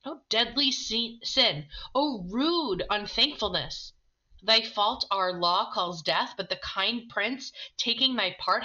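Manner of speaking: stern friar read with some heat; dramatic reading. Acted. Friar scolding Romeo read aloud, mild stern reading. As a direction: scold the ungrateful youth as you read.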